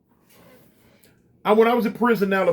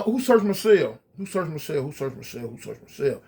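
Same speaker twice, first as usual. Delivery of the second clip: a shouted question that dies away; repeated call fading away; 3 semitones lower, 3 dB quieter than usual. Retold or imitated. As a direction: call out, then let each repeat drop lower and softer. Yelling to guards from cell.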